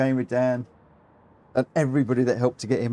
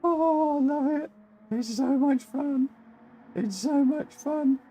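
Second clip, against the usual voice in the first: delighted high; 11 semitones higher, slower than usual. Real, not acted. Delighted laughing aftermath.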